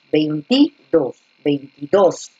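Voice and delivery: veintidós with the stress landing hard on -dós, drawn out slowly; slow teacher's demo of veintidós stressing -dós; stress on the last syllable. Shown as a demonstration. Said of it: "la fuerza de voz está en la última".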